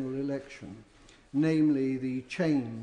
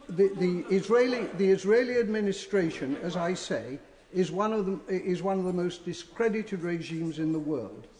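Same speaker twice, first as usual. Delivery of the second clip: raised, indignant speech; heated parliamentary debate; 4 semitones higher than usual. Real, not acted. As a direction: push it with rising anger. MP rails against Israeli regime.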